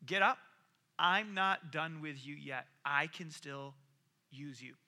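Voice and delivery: slow, softening reassurance; tender God. Retold or imitated. God reassuring Jonah on the beach, tender and slow. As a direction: gently lift him up. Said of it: "God goes".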